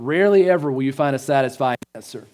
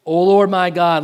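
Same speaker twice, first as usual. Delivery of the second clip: louder plea, mildly acted; crying out in prayer; 3 semitones higher, 6 dB louder than usual. Elijah stretched upon the child, crying out to the Lord. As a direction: call out to God with some force. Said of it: "he cried out to the Lord".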